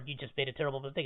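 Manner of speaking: ordinary delivery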